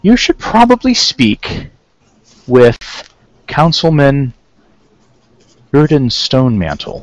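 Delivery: lightly voiced townsperson, slow and measured. Townsperson advising the visitors whom to see, lightly acted. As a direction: start high and slow, settling downward.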